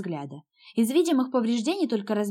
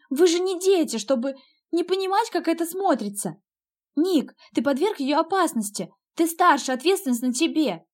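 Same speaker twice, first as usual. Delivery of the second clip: heated berating; 7 semitones higher than usual. A narrator's reading. Sister berates brother.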